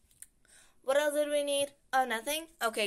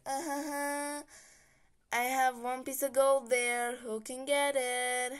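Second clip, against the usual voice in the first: lightly voiced greedy taunter; 3 semitones higher than usual. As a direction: dangle the gold like a mild cartoon tease. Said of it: "Like, kind of like that".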